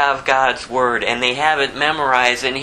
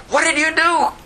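much higher, startled demand; alarmed sailor; 12 semitones higher than usual. Acted. Sailors ask Jonah what he did, high startled voice. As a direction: jolt up in pitch, accusing.

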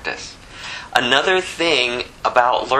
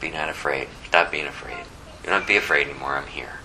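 softer and lower, gentle reassurance; tender comfort; 8 semitones lower, 6 dB quieter, faster than usual. Acted. Preacher voicing Jesus comforting disciples, soft and tender. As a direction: speak as if calming a frightened child.

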